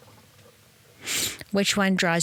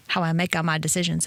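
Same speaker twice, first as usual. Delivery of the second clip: put-on lower, playful Italian accent; mock Italian accent; 4 semitones lower than usual. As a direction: add Italian-style vowels to word endings. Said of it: "I'm Italian".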